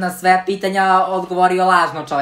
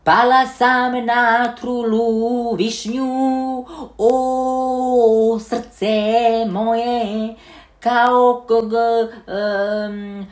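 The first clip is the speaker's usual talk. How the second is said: slow, higher helium-filtered crooning; 3 semitones higher, much slower than usual. Acted. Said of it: "ajde helium".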